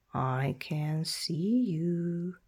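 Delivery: slow, knowing dragon voice; sly dragon. Acted. Dragon guarding treasure to a thief, slow and sly. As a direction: tease the thief slowly.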